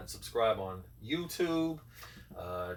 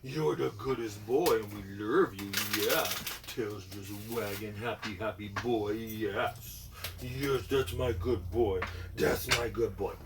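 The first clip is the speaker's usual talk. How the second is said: louder doting pet talk; dog praise; 4 dB louder than usual. Real, not acted.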